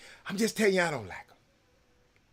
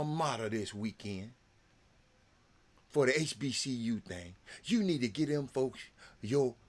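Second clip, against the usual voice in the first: mock condescending pundit; 3 semitones lower than usual. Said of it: "This redneck said".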